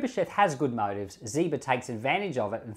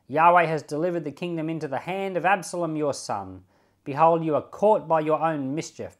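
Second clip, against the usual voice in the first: loud, higher ringing curse hurled at the king; a man cursing the fleeing king, loud and raised; 4 semitones higher, 7 dB louder than usual. Acted. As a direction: hurl the curses at him. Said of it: "when he cursed".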